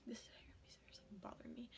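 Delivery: slow whispered complaint under her breath; whispered aside. Real, not acted. Interrupting her story, a slow whispered complaint. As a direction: whisper it to yourself, slowly. Muttered aside while telling.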